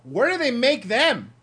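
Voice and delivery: high, slow marveling dad; amazed dad. Retold or imitated. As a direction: imitate dad's awed running commentary. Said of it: "and he goes".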